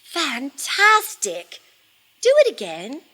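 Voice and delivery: loud storybook cheering; excited shout. A narrator's reading. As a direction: call out high and loud, egging them on. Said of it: "but Elizabeth shouted".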